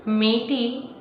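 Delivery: slow, measured dramatic recitation with long pauses; expressive verse reading, unhurried; poetry recitation. Acted. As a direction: recite it like a story-poem, weighting each phrase. Recites a poem.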